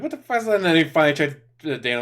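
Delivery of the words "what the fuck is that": imitated disgust. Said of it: "it's like".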